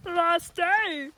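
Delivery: high, loud celebratory whoop; excited shout. Real, not acted. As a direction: call it out like a cheer. Cheering the final day, repeated louder.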